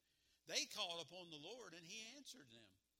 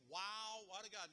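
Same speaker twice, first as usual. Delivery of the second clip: enthusiastic; 2 semitones higher than usual. Shown as a demonstration. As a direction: show them how excited to sound. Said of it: "with enthusiasm".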